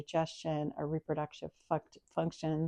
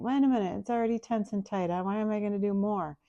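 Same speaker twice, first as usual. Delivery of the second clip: doubtful inner voice; 3 semitones higher than usual. Retold or imitated. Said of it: "and you'll think".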